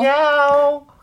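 high meowing cat voice. Shown as a demonstration. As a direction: meow like a cat. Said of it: "고양이도 되게".

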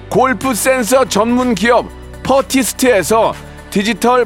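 brisk sponsor list read. Acted. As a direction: read the prizes like an ad.

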